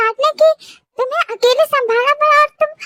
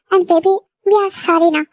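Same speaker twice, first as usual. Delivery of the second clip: coaxing apology; 4 semitones lower, much slower than usual. Acted. Apologizing to girlfriend.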